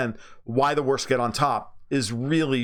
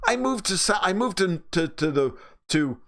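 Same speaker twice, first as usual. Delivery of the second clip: ordinary talk, nothing marked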